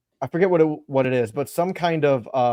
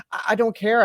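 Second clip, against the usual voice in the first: put-on little girl voice; 9 semitones higher than usual.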